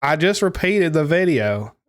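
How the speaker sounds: slow, exaggerated attempt at an American accent; put-on American accent. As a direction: lay an American accent on slowly. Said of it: "you gotta talk like".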